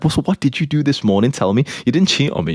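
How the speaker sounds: lightly voiced girlfriend, pressing for an answer; questioning girlfriend. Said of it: "And she's like".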